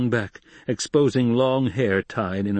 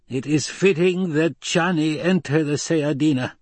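Reverend Mother Amalo; 7 semitones higher than usual. Acted. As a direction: intone it like a voice of many. Old woman declares.

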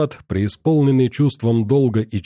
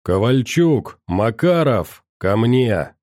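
bellowing call; slower than usual. Acted. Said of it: "как граммофон, проорал".

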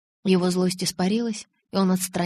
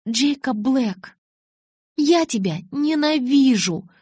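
slow, high, emphatic fury; angry declaration; 6 semitones higher, 3 dB louder, slower than usual. Acted. Bella telling Jacob she hates him, slow fury. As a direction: draw out each word in anger.

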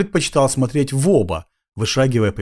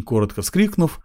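plain reading voice

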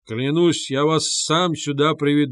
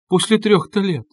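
higher-pitched, mildly tearful lament; a mother's plaintive protest, pitched up; 7 semitones higher, 4 dB louder than usual. A narrator's reading. Mother parted from her son for years, tearful. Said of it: "заплакала Пульхерия Александровна".

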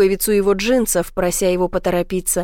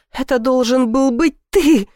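higher, louder wail through tears; sobbing; 4 semitones higher, 4 dB louder than usual. A narrator's reading. Ivy sobbing into Blake's shoulder. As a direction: sob it into his shoulder. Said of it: "прорыдала я ему в плечо".

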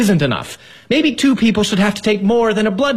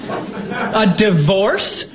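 very slow, incredulous half-laugh; husband can't believe she wants a divorce; stunned disbelief; much slower than usual. Acted. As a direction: drag out the disbelief.

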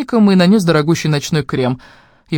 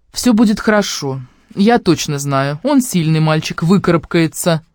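firmly reassuring; slower than usual. Acted. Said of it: "твёрдая уверенность".

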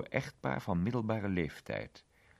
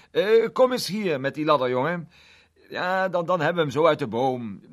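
loud call down the street, higher; 7 semitones higher, 12 dB louder than usual. A narrator's reading. Mr Egg calling the window cleaner over, loud and raised. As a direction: shout for the window cleaner to bring the ladder. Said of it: "Hij riep hem".

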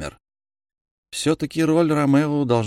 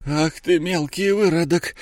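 сипит зло; 8 semitones higher than usual. Acted. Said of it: "просипел он".

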